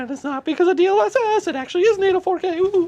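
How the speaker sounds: very high, squeaky chipmunk voice. Pretend. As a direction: pitch way up like a chipmunk. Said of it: "go back to chipmunk voice".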